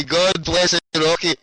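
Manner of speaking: a slow, relishing repeat of the blessing; slow drawn-out blessing. Real, not acted. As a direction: stretch each word out slowly.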